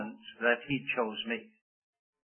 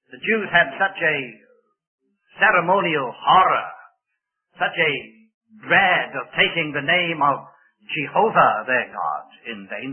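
rising preaching force; 4 dB louder than usual. Acted.

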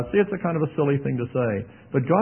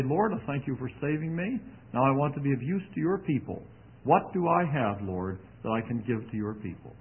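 hushed prayer; 6 dB quieter than usual. Pretend. Imagined prayer to God.

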